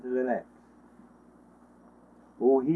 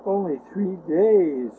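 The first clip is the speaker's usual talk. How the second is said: hushed, slow, broken whisper of despair; crying out softly; 7 dB quieter, slower than usual. Acted. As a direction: let the words sink under the weight of three days. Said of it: "he cried".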